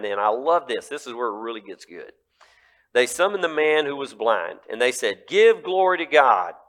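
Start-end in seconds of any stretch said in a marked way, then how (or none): 5.3-6.6 loud, high commanding rulers; stern demand. Acted. Rulers demanding the blind man recant, loud. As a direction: bark it like an interrogator.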